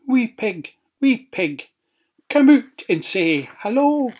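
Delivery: high, sly wolf calling. A narrator's reading. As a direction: coax the pig out. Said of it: "wolf calls at door".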